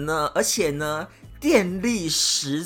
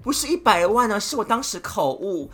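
higher, louder, flustered protest; feigned innocence; 5 semitones higher, 4 dB louder than usual. Retold or imitated. Scumbag caught lying about his pension, feigning innocence. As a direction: play dumb, backpedalling in a rush.

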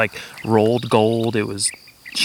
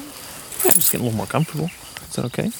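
relaxed, lying on back; 5 semitones higher, 4 dB quieter, faster than usual. Real, not acted. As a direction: talk while lying down flat. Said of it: "Are you lying down?".

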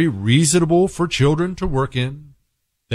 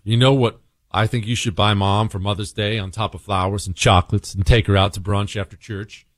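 usual speaking voice

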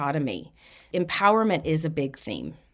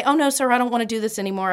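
mock panic; 5 semitones higher, 4 dB louder, much faster than usual. Rider begging to leave coaster.

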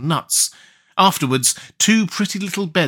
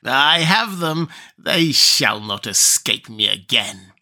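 mocking witch; slower than usual. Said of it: "she laughed with malice and said mockingly".

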